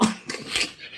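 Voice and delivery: soft, voiceless laugh. Real, not acted. Creator laughing at the mistaken blame, soft laugh. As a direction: laugh quietly without voice.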